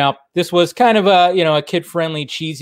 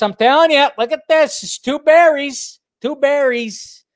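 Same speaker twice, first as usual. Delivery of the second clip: excited; 11 semitones higher, 4 dB louder than usual. Real, not acted. Excited over a movie detail.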